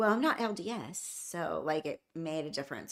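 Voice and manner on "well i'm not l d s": acted-out condescending, patronizing cop tone. Retelling what a cop said to a worried husband: imitating a condescending cop. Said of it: "the cop was kind of condescending to him".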